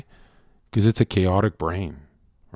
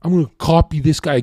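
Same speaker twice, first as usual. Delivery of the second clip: higher-pitched, quick imitation of a girlfriend; mock smitten girlfriend; 5 semitones higher, faster than usual. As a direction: lightly imitate an eager, copycat girlfriend. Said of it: "they don't even know that they're turning into clones".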